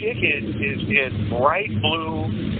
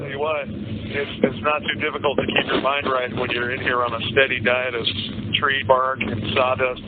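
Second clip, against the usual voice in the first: talking through a prison phone receiver; prison phone call. Real, not acted. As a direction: voice over a jail payphone line. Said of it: "This is a prepaid collect call".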